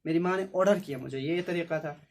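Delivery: ordinary talk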